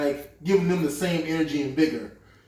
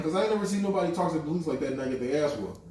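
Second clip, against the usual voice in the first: fast laughing disbelief; 2 semitones higher, faster than usual. Real, not acted. Laughing disbelief at the cop scene.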